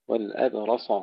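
والأبرص with a thick emphatic S; weight the sad of والأبرص; heavy sad. Shown as a demonstration. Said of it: "تفخيم الصاد جيدا". (تفخيم الصاد)

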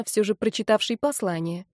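usual speaking voice

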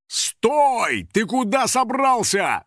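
high-pitched shout after a fugitive; outraged acted yell. A narrator's reading. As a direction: holler to stop someone escaping. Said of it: "заорал Юджин".

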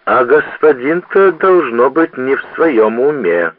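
high-pitched gossiping townswoman. A narrator's reading. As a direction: raise the pitch, a staring matron. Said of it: "сказала почтенная горожанка".

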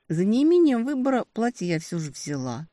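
ordinary delivery, nothing marked

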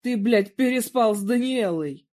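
loud furious bellow; roaring accusation. A narrator's reading. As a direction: blast the accusation at him. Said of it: "взревел".

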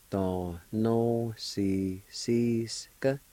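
"da, no, si, si, ska" evenly spaced syllables; measured beats on "da, no, si, si, ska"; slow sounded-out pronunciation. Shown as a demonstration. Teacher repeating the word for explaining, slowly sounded out. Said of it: "it's pronounced like this".

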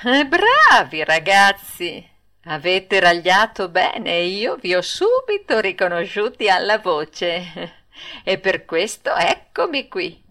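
with a little snicker. Acted. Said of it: "col suo solito risolino".

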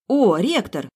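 high, loud, delighted exclamation. A narrator's reading. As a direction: brighten up with sudden joy. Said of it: "обрадовалась я".

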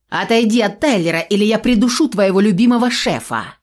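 loud shout. Acted. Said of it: "громко крикнула".

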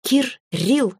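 high, gleeful little dragon in two split syllables; baby dragon's voice. A narrator's reading. Baby dragon chiming in from afar, high childlike call. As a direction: pipe up like a child, syllables apart. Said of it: "донёсся с балкона голос дракоши".

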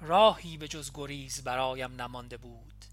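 measured, solemn reading of verse; reading a farewell poem aloud from a letter; poem recitation. A narrator's reading.

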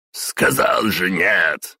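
slow, loud, booming no; thundering refusal. Acted. Boss thundering at the intern, slow and loud. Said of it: "громыхнул Самай".

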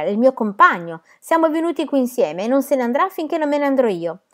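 yelling. A narrator's reading. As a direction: stand up loudly for a friend. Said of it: "strillò Sterra".

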